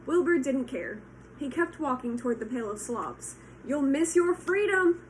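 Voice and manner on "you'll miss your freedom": high, loud honk; goose honking. Acted. Goose honking at Wilbur, high and loud. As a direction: honk the warning. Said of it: "honked the goose".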